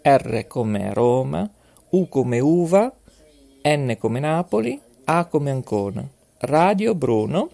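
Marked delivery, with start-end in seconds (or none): 0.0-6.1 spelling it out. Shown as a demonstration. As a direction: spell out each letter with a city, clearly paced. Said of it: "vi faccio lo spelling".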